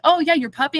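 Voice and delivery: playing along with a toddler, high and sing-song; high playful reply. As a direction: humor the kid, voice lifted high. She plays along with child.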